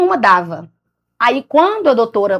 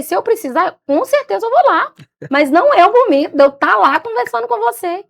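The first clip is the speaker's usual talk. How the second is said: firm retort; 8 semitones higher than usual. Retold or imitated. Telling off the psychologist.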